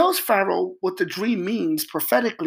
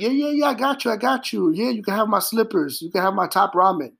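high, quick casual reassurance; breezy high promise; 3 semitones higher than usual. Retold or imitated. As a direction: toss off an easy promise. Freed inmate promising lightly.

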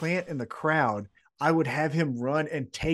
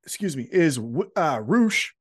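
hiccups; 4 dB louder than usual. Real, not acted. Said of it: "I got the hiccups here".

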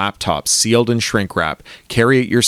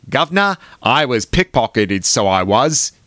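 hammed-up Cockney accent, a bit higher at the start; broad Cockney; 3 semitones higher than usual. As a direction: ham up a bad Cockney accent. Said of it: "adopted a broad Cockney accent".

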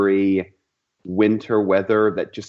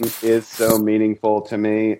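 understated, stiff show of feeling; mock reluctant. Teased guest answering the host's question, mock reluctant. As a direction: play along as if reluctant and computer-like. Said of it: "It's reluctant Tim".

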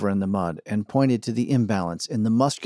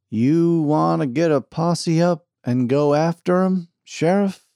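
slower, higher, louder deputy; eager deputy voice; 6 semitones higher, 5 dB louder, slower than usual. Acted. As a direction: raise the pitch, ask it eagerly. Deputy Pete asks the sheriff.

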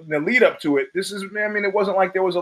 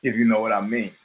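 low, suggestive innuendo; dirty innuendo; 4 semitones lower, 3 dB quieter, faster than usual. Shown as a demonstration. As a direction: make it sound dirty, pitched down. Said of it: "makes it sound dirty".

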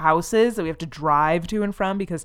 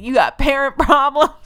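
much higher and louder mock yell, laugh inside, rising end; mocking a singer again; 8 semitones higher, 7 dB louder than usual. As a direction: shout it up like a cheesy frontman, cracking up. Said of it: "he was like".

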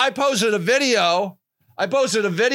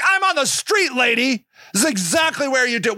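indignant retort; 3 semitones higher, faster than usual. Retold or imitated. Activist answering the lady who objected to the yelling, indignant. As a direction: retell it as a defiant retort. Retold argument with office lady.

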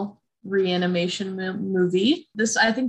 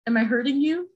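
higher, tentative question; mild mock concern; 5 semitones higher than usual. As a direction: imitate a slightly worried check-in. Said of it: "he gets kinda concerned".

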